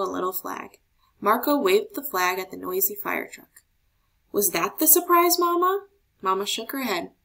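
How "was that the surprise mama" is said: eager question. A narrator's reading. Child asking eagerly again.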